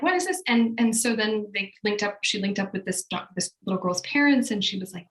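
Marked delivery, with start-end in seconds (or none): 0.0-0.4 much higher, amazed question; stunned surprise. Retold or imitated. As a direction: gasp it out in disbelief. Friend stunned by the child.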